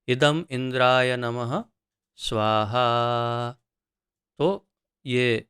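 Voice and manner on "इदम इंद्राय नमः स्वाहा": fire-offering mantra with a drawn-out स्वाहा; mantra recitation. Shown as a demonstration. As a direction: recite it as an offering, holding स्वाहा long and level. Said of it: "फिर मंत्र उच-, उच्चारण होता है, जैसे कि". (मंत्र उच्चारण, लंबा खिंचा स्वाहा)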